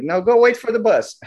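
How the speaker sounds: director. Retold or imitated. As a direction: instruct the boy like a busy director. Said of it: "the director comes".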